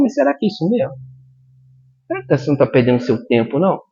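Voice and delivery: a soft, quick doubting little voice slipping into your mind; hint of a sly tempter, fast on the second line; whispery tempter voice. Preacher voicing Satan's doubts to the church, sly quick murmur. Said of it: "de repente vem uma vozinha".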